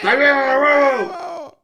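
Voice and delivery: high shouted mock mom; Dominican mom voice. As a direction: yell it like an angry Dominican mom. Mocking a Dominican mom meme.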